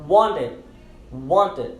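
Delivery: "wanted" with the T after N softened away; silent T. Shown as a demonstration. Teacher models "wanted" for learners with silenced T. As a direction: say "wanted" without a crisp T. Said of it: "nós vamos silenciar esse T".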